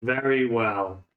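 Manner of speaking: slow, measured undead reply; resigned undead. Acted. Skeleton yields to the bard's order, resigned undead. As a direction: give in slowly, word by word.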